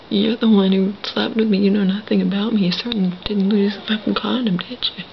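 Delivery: loud, rapid accusation; retold angry comeback. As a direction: throw the blame back at him. Retold furious argument with him.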